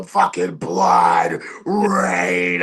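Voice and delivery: slow, straining hoarse growl; worn-out raspy voice. Retold or imitated. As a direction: voice shredded by hours of announcing. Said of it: "I can hardly even talk".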